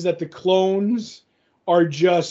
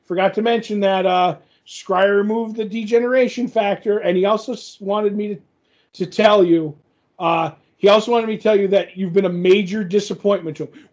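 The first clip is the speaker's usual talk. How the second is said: mock agony; 3 semitones higher than usual. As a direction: fake suffering, then smug. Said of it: "He's like".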